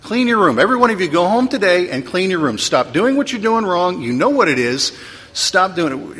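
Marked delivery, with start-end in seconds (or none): 0.0-4.0 loud, higher, scolding order to clean up; mock stern preacher scolding; stern command. Shown as a demonstration. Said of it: "I can do this". 5.3-6.2 stern command. Shown as a demonstration. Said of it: "I can do this".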